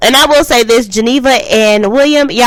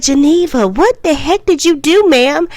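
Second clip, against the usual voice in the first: higher, incredulous scold; exasperated scolding; 8 semitones higher than usual. Retold or imitated. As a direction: call her out in disbelief, pitched up. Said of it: "And it's just like".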